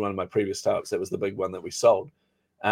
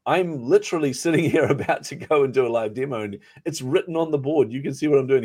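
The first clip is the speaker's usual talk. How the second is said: retold disbelief, pitched higher with a laugh; exasperated; 5 semitones higher than usual. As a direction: act out your stunned frustration with the co-founder.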